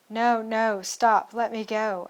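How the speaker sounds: loud, desperate plea to stop; crying out. Acted. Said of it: "I cried aloud and in my mind".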